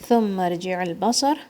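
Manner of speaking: ثم ارجع البصر recited with tajweed, heavy ra; tajweed recitation; Quran recitation. Shown as a demonstration. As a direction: model the verse for pupils. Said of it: "Tha is going to come from the tip of your tongue".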